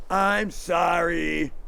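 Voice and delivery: careless sorry. Shown as a demonstration. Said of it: "That doesn't mean anything".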